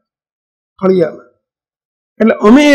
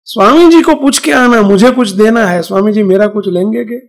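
imitated old woman; 3 dB louder than usual. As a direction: lightly voice an old woman sending a message. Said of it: "ડોશી કહે".

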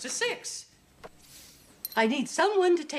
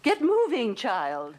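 sharp scolding order. Acted. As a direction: order her on impatiently. Nun scolds staring helper.

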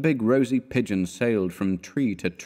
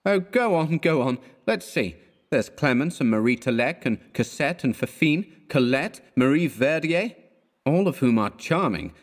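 high, sarcastic roll of names; scornful friend teasing; mocking list; 6 semitones higher than usual. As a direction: tick off his past loves mockingly. Elliot mockingly lists past loves.

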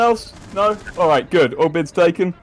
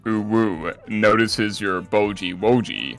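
put-on slow, lower cutesy uwu baby talk; 5 semitones lower, slower than usual. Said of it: "I have to speak uwu for one minute".

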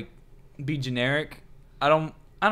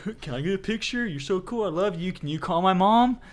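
higher-pitched mock fanboy voice; gushing fan; 5 semitones higher than usual. Imagined fans pestering someone famous, mock gushing. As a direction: gush it in a higher, put-on voice.

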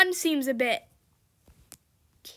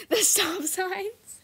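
slow words broken by laughter; laughing; 4 semitones higher, much slower than usual. Real, not acted. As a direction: laugh through the question. Laughing at a stop sign.

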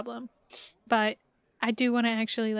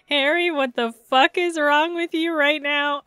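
loud, exasperated outburst; Kim; 2 semitones higher, 7 dB louder than usual. Acted. Kim telling Harry off, loud exasperation. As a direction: hit it hard, appalled at Harry. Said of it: "Kim saying".

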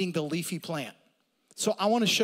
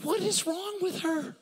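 laughing disbelief; 11 semitones higher than usual. Acted. Mock exasperation, laughing.

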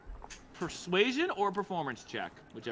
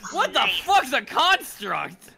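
baffled; 8 semitones higher, 9 dB louder, slower than usual. Pretend. Player mocks baffled Grandolph.

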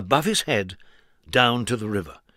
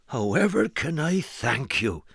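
grateful farmer. Acted. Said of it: "the farmer asked".

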